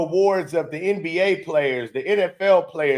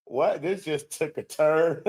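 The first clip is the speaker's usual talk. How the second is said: mock startled aside; 5 dB quieter than usual. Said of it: "Her face is like".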